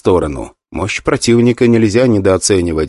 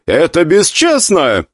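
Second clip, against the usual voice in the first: slow, outraged accusation; indignant; 6 semitones higher, slower than usual. Acted. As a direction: spit out the accusation. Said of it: "возмутился Джен Ли".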